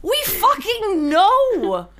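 high, drawn-out exasperated cry, half laughing; comic exasperation. Real, not acted. Answering those who say there's no solution, laughing exasperation. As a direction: stretch it out in laughing disbelief.

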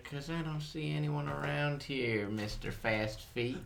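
sly cowboy bandit sneer; outlaw taunt. Pretend. Bandit taunting captive guide.

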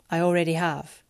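low, curt male reply; gruff. Acted. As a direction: say it gruffly and short. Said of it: "he gruffly said".

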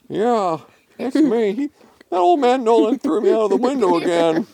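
high, quick complaining voice; Randy the cat. A narrator's reading. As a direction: grumble fast in a squeaky register.

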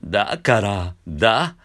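だから eased up from a creak; spoken scoop. Shown as a demonstration. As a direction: slide lightly into だから. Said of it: "喋ってる時も".

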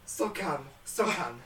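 low and soft, deflated; subdued. Acted. Assistant answers shouting host, subdued. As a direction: drop right down, giving in.

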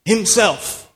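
"Himself" high, then falling; emphasis on himself. Shown as a demonstration. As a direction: set "Himself" apart with weight. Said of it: "I like that emphasis".

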